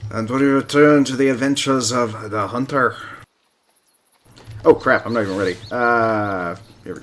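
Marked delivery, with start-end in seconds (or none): 0.1-3.0 a louder, put-on Aussie narrator voice; Australian accent. Gamer trying an Australian accent on his viewers. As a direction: announce it like an Aussie adventure host. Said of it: "my Australian Aussie accent".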